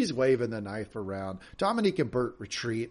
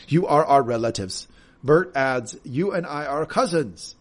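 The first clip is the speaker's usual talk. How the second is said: mock Bert accent; 2 semitones higher, 5 dB louder, slower than usual. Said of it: "That's how he sounds".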